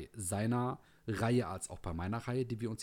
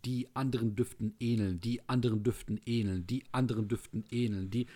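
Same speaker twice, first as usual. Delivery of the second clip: skipping record. Pretend. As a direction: repeat it like a stuck record. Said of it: "die Platte hängt gerade nicht". (wie eine hängende Schallplatte)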